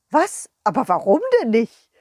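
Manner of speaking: object, put out; a king's outraged what; indignant king. Acted. King protests.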